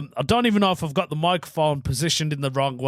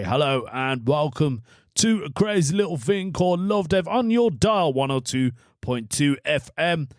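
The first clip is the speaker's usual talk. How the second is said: cheesy radio presenter intro; 2 semitones higher than usual. Pretend. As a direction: announce it like a local DJ. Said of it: "I do sound like a radio D J".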